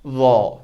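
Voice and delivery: वॉ said thick and heavy; भारी वॉ; heavy letter demo. Shown as a demonstration. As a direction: give वॉ weight. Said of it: "ये heavy है".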